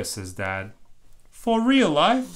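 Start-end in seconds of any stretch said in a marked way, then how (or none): 1.3-2.3 put-on high, loud, eager kid voice; a thrilled little girl who can't believe it; excited child. Bluey's excited question.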